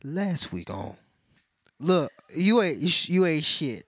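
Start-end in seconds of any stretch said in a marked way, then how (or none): 1.8-3.8 loud playful put-down; loud mock scolding. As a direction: scold her loudly in jest.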